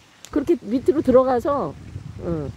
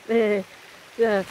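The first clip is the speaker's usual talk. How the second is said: ordinary delivery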